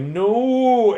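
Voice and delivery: a sudden high, loud cry of protest; everyone's anguished no. Retold or imitated. The party cries out as Chrono is killed, high loud no. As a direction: yelp it out in dismay. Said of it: "And everyone's like".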